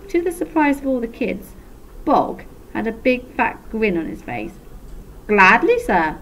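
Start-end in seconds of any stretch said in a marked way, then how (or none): 5.3-6.2 cheerful, eager yes; bright reply. A narrator's reading. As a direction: chirp it like you can't wait. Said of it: "the boy replied brightly".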